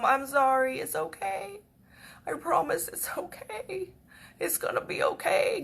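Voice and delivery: high, strained reassurance; holding back tears. Retold or imitated. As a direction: comfort them while fighting off tears. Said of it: "trying so hard not to cry".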